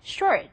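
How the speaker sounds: "short" with a strong R and barely heard final T; native English pronunciation. Shown as a demonstration. Teacher showing how foreigners really sound, R-heavy pronunciation. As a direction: curl the R in "short" and swallow the T. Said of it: "그 사람들이 여태까지 말하고".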